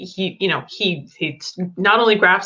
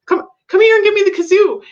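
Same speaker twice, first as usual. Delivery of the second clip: a hint of an exasperated dad, pitched higher; dad to son; 10 semitones higher, 5 dB louder, faster than usual. Father asking his son for the kazoo, mildly exasperated. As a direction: coax the kid to hand it over. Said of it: "he's like".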